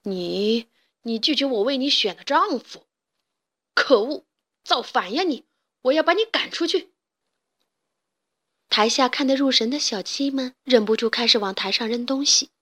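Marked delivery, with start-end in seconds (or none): 0.0-6.9 怒斥造反的女儿; hammed-up furious father; angry stage father. 戏中父亲怒斥女儿. (戏里的父亲生气地大骂)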